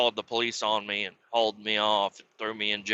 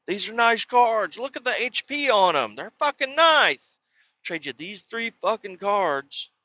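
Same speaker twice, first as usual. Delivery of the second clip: hyped sales pitch; 4 semitones higher than usual. Retold or imitated. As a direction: pump up the cards like a hustler. Rival hyping his cards.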